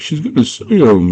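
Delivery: high, excited goblin squeal. Retold or imitated. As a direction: imitate a goblin alerting the others. Goblin reacts as words near.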